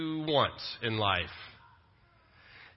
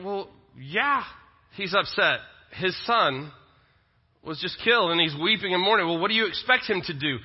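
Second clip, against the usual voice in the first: higher-pitched voicing of a reader's reaction; matter-of-fact retort; 4 semitones higher than usual. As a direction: imitate someone stating the obvious.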